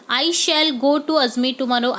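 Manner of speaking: very slow example sentence; slow dictation read. Shown as a demonstration. Teacher dictating the answer sentence to students. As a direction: dictate it word by word.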